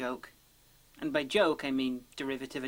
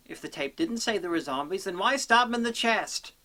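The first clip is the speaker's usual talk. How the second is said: exasperated questioning; 3 semitones higher, 3 dB louder than usual. Acted. Reviewer posing the opposite case, exasperated.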